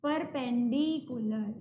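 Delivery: drawn-out term. Shown as a demonstration. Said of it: "तो उसको हम क्या बोल देंगे".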